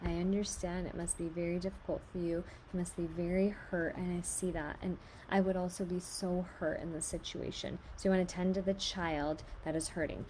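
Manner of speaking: put-on soft, tender reassurance to a crying child; gentle comforting. Shown as a demonstration. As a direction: comfort a hurt child softly. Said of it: "These are really good phrases to say".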